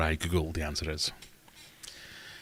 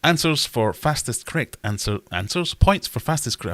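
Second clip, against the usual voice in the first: announcer voice; 5 semitones higher, 4 dB louder than usual. Acted. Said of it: "oh God, I'm gonna need to edit this".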